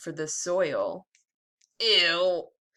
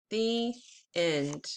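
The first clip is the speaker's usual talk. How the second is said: put-on lively storybook read-aloud for kids; teacher reading a worm book to the class; reading to children. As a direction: read it like circle time, bright and clear. Teacher reads picture book aloud.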